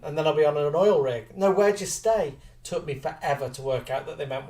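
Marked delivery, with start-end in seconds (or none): 1.4-2.3 insistent Scottish cabbie, raised pitch; imitated Scottish driver repeating himself; Scottish taxi driver. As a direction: ask it pointedly in a Scottish accent. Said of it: "the taxi drivers always go".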